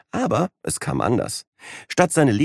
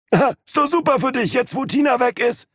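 high, mocking laugh in the voice; teasing through laughter. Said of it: "lachte Wayne".

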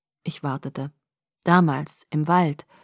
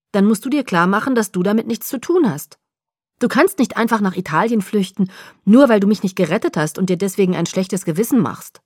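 loud, pressing, insistent; urgent protest; 6 dB louder than usual. Acted. Bella pleading with Edward, loud and insistent. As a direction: push the point hard at him.

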